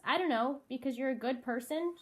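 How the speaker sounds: "person" lifted into an unsure rising tune; like a question. A narrator's reading. Friend shrugging off why they are friends, answer said like a question. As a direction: let "good person" rise as if asking. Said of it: "she says it like a question".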